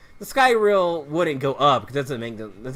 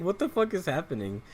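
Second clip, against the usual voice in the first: said through laughter, softer; laughing; 6 dB quieter than usual. Real, not acted. Gamer laughing at Sonic's odd new voice, through laughter. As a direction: laugh the words out in disbelief.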